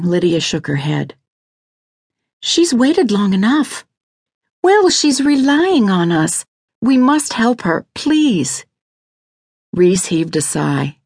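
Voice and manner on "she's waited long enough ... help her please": high, slow, insistent begging; pleading wife. Acted. Lydia begs Reese to help Mouse, pleading. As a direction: plead hard in a much higher woman's voice.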